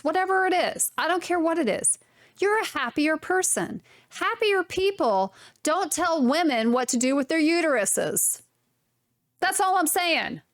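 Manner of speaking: high-pitched, insistent rant; yelling rant. Real, not acted. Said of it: "why I'm yelling at you".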